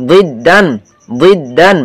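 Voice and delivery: "দিদ"-এর দ মোটা ও ভারী করে; ভারী দোয়াদ. Shown as a demonstration. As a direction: say the first consonant of "দিদ" thick and heavy. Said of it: "দোয়াটা একটু মোটা হবে". ("দিদ"-এর শুরুর দ ভরাট, মোটা উচ্চারণে)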